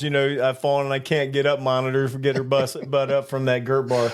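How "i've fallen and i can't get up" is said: ad quote. Retold or imitated. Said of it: "one of them damn monitors".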